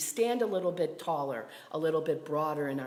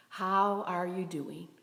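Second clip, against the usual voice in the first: "How are you doing" drawn out slowly; slow, sincere repeat of the question; slow, deliberate check-in. Real, not acted. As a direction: ask "How are you doing" slowly, giving each word room.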